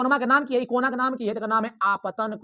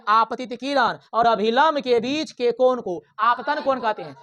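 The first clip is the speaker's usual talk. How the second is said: slow, louder exam answer recital; 4 dB louder, slower than usual. Shown as a demonstration. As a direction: recite the model answer slowly and clearly. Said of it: "तो कहेंगे". (धीमा, ऊँचा रटा हुआ उत्तर)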